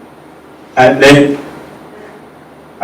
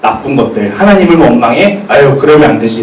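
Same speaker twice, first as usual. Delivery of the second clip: scornful tutting; 5 semitones lower than usual. Retold or imitated. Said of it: "이렇게 생각했는데".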